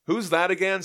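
high, loud baffled ask; genuinely baffled who he is; puzzled question. Retold or imitated. Dawn asking about Zed, high loud bafflement.

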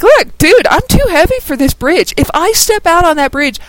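a heavy monster pleading about the bridge; Balrog warning. Retold or imitated. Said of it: "He was like".

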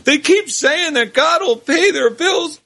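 pleading, voice cracking with emotion; choked-up plea for two poor souls; voice breaking with emotion. Acted. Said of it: "he said in a voice breaking with emotion".

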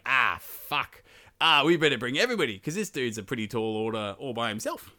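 a touch of panicked king; Danish king's alarm. Retold or imitated. Danish king hearing Siegfried joins Burgundians, alarmed. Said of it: "he's like".

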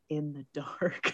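put-on slow, quiet creepy kid line; creepy child. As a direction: say it eerily slow like a scary child. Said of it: "Sarah says".

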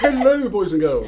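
put-on high, loud panto dame calling the kids; hammy pantomime dame, bright and high; overbright kids party host. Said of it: "My name's Widow Twanky".

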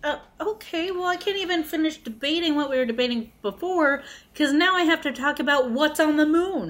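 acted-out flustered protest; mock exasperation. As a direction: pitch it up as you mimic someone derailed mid-argument. Acts out a derailed debater.

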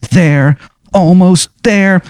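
high, slow, crooning to herself; a dreamy, high, stretched-out murmur; sing-song Betsy. Acted. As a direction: croon it while sewing like mad. Betsy sewing furiously, voiced.

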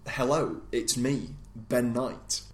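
a light attempt at Ben's regional accent; half-hearted impression of Ben's regional accent; imitating Ben's accent. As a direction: nudge toward Ben's accent without really landing it. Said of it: "I can get the inflection, but not quite the accent".

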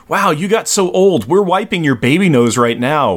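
put-on lively, high-pitched teasing of an old friend; teasing Power Pack kids. Power Pack talking to Old Man Cable, teasing amazement. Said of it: "Power Pack talking to Old Man Cable, going".

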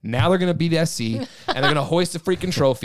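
breathless after a rant; winded from ranting; out of breath. Real, not acted. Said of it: "Take a breath".

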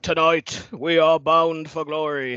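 slow, booming wrestling announcer; TNA announcer voice. Shown as a demonstration. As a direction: draw it out like a ring announcer. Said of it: "T N A announcer voice impression".

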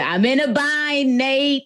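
lightly acted sultry plea; quoting the line. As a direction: stretch out the coy plea. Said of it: "she was like".

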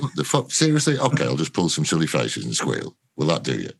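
stroppy. Retold or imitated. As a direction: act out a sulky actor fed up with the director. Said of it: "I was, like, a bit stroppy".

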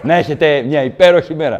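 grovelling apology. Retold or imitated. Grovelling to the thug.

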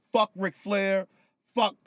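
excited outburst. Real, not acted. Tipsy fan hyping his favourite.

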